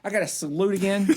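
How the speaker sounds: laughing grumble of a tired officer; lightly voiced fed-up officer; mock annoyed officer. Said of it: "They get tired of".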